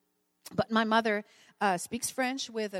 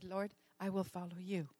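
soft, lowered voice of submission; retold quiet surrender; 3 semitones lower, 11 dB quieter than usual. Mother answering the Lord's call, retold quiet surrender. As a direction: quietly give in, much softer.

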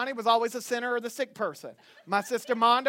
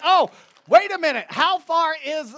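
loud, higher burst of second thought; real surprise, pitched up and loud; sudden realization; 5 semitones higher, 6 dB louder than usual. Real, not acted. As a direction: cut in loudly as a new thought hits. Sudden second thought about the winner.

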